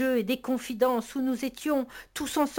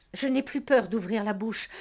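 usual speaking voice

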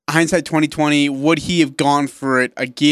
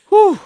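high, loud "whew"; relieved whew; 6 dB louder than usual. Real, not acted. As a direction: let out a high-pitched whew. Reacting to a nail-biting game.

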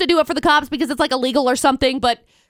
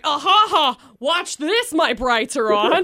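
mocking gloat; slower than usual. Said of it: "I'm like".

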